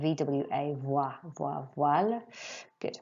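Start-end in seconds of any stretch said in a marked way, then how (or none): 0.7-2.2 "voile" begun with a V-W glide, "vwal"; V-W sound in voile. Shown as a demonstration. Teacher showing pupils the French sound, "voile" said with a V-W glide. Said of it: "voile is like a V W sound".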